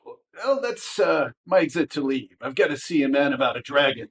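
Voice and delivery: smarmy exit. Acted.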